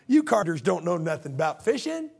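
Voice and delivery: mock-sympathetic put-down; condescending. Fisherman dismissing a carpenter's fishing advice, condescending. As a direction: patronise them, drawing out the pitying opener. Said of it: "It's like that condescending".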